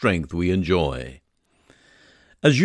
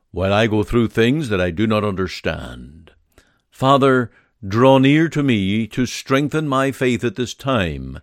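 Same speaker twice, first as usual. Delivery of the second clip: earnest spoken prayer. Acted. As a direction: pray it aloud, sincerely pleading. Leads a prayer for the sick.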